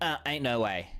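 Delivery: put-on voice of a dog. Retelling how the dog refuses to go out in the rain: imitating his dog refusing. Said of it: "and then he goes".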